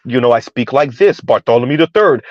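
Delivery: a hint of a stuffy upper-class gent; fake establishment voice. Mocking black men talking down, a lightly stuffy establishment voice. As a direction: lightly put on posh airs, talking down. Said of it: "they would put on some fake establishment".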